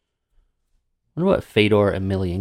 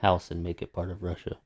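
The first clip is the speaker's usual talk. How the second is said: put-on Russian accent; 4 dB quieter than usual. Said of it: "I'm gonna stop doing a bad Russian accent now".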